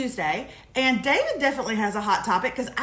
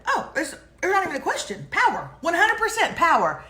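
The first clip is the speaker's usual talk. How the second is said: higher-pitched, emphatic certainty; quoted reply, pitched up and insistent; emphatic quote; 5 semitones higher than usual. Retold or imitated. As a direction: imitate a cousin answering without any doubt. Acted quote of cousin's answer.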